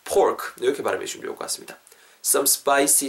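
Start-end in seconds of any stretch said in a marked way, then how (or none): 0.0-0.5 PORK begun with both lips closed then burst open; popped P sound. Shown as a demonstration. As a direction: pop the P of PORK. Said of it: "아랫입술이 닿았다가 터지는 사운드". (PORK의 P를 입술을 터뜨리며)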